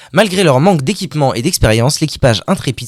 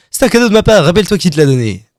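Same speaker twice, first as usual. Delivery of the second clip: salesman voice; 5 semitones higher, faster than usual. Acted.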